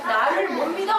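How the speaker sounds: loud reproachful question, lightly acted; mock scolding. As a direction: scold a doubting disciple, half in play. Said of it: "막 야단쳤어?".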